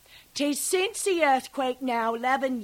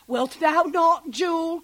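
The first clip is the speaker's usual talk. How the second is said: teasing husband, higher; husband's jest; 6 semitones higher, 4 dB louder than usual. Retold or imitated. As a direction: coax the child playfully, a bit louder. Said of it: "quoth he".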